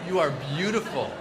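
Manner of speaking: gentle, lightly sincere lines for the crowd to copy; sincere affirmation. Shown as a demonstration. Leading the crowd in repeat-after-me, lightly sincere and warm. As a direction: say it like you mean it to their face. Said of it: "I say it, you repeat it".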